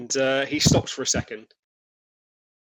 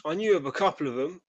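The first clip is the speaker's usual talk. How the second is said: lightly voiced trader, hesitant and higher; uneasy stallholder; 4 semitones higher than usual. Stallholder telling a reporter about missing youngsters, uneasy.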